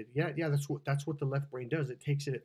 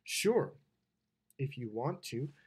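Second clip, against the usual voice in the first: a yes whose tone means no; grudging consent with a pause after "Sure"; reluctant yes; slower than usual. Shown as a demonstration. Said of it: "listen to the tone, the way she says it".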